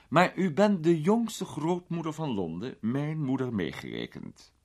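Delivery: lightly voiced gallant lord. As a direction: sweep into the gallant greeting. Peter voiced in story.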